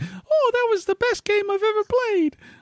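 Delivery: very high, swooping, squeaky, sing-song cartoon voice. Acting out how he talks after a game ends, in a Mickey Mouse voice. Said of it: "you do talk like Mickey Mouse after it's over".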